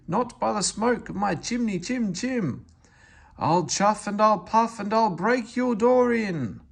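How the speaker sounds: big bad wolf voice. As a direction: huff it like the wolf at the door. Toby mocks the big bad wolf.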